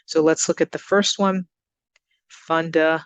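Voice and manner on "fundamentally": fundamentally broken up, MEN punched; teacher's careful demo of funda-MEN-tally; stress on MEN. Shown as a demonstration. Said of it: "So we're going up on the, the M E N".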